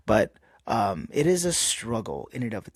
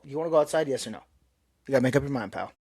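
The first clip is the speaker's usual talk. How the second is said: pet talk; 2 semitones higher, much faster than usual. Real, not acted. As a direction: coax the dog like a buddy. Talking to the dog.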